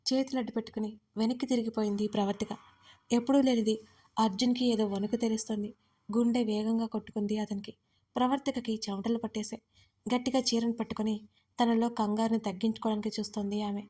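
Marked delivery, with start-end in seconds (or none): none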